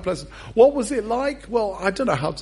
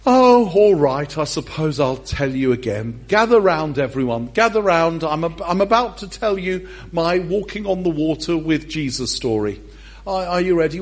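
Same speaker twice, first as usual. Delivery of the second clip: hammed-up boastful storyteller; grand storyteller Peter; 4 dB louder than usual. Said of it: "I imagine Peter saying".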